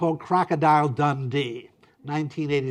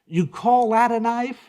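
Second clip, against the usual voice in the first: mock challenge; 8 semitones higher, 4 dB louder than usual. Mock tough-guy challenge.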